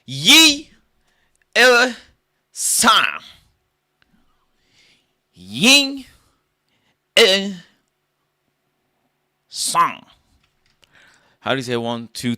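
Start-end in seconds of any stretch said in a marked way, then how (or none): 0.0-3.2 squeaky high shouted count; mock Chinese counting. Comic asking counting in Chinese, shrill loud yelps. 5.3-10.0 squeaky high shouted count; mock Chinese counting. Comic asking counting in Chinese, shrill loud yelps.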